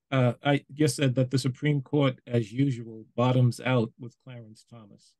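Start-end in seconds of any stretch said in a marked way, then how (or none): 1.3-5.1 a little slower, each phrase set apart. Real, not acted. Panelist repeating a remark for the host who missed it, slower. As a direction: repeat it at a more measured pace. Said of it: "Okay, I'll say it slower".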